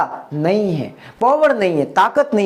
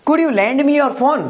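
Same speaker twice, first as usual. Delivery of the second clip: slow, raised English question; slow, higher question; 5 semitones higher, much slower than usual. Shown as a demonstration. Teacher models a polite request for students. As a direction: ask it slowly and brightly up. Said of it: "next पे आते हैं".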